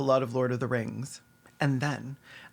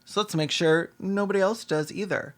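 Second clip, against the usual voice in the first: mock old agent; 5 semitones higher than usual. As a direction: sneer it as the snobby agent. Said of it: "He's like".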